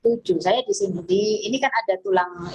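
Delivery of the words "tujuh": counts the taps out slowly, one by one; slow, steady count, as if tapping along. Shown as a demonstration. Teacher counting taps slowly for viewers. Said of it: "sudah berapa nih?".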